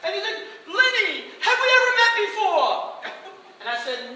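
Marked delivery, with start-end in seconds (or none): 0.6-3.0 loud, high laughing stage patter; hammy host bit; cheesy showman. Retold or imitated. Performer hamming an old joke at Lenny.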